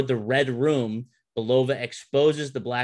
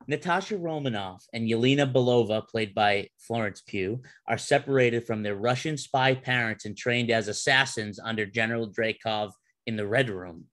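synopsis read-out. Acted. Reads the movie synopsis.

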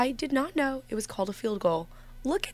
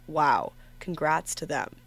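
monotone; 3 semitones lower, slower than usual. Real, not acted. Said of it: "That wasn't meant to be sarcastic. I just have a somewhat monotone voice".

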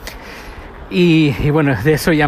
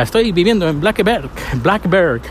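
put-on English accent; 4 semitones higher than usual. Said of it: "así en acento inglés o americano".

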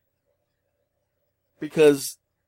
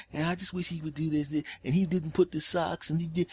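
lightly mocked nagging, higher and softer; a hint of petty nitpicking; complaining woman; 4 semitones higher, 6 dB quieter than usual. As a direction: run on in a higher complaining mumble. Mimics her nitpicking complaints.

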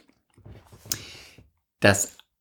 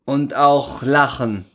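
ironic recital. Acted. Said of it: "Du schweifst wieder ab mit deinem Ton".

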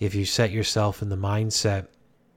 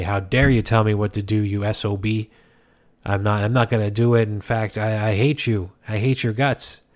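a touch louder, hammed-up indignant outburst; mock angry retort; 3 dB louder than usual. Imitating someone snapping back at family advice, mock angry. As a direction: play the offended relative lashing back, half in jest. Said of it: "go back to them aggressively and say".

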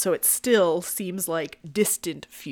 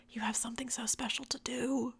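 soft intimate whisper; 5 semitones higher, 8 dB quieter than usual. Real, not acted. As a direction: lean in and whisper it. Intimate aside to listeners.

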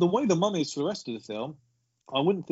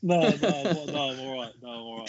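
out of breath. Real, not acted. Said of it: "catch your breath".

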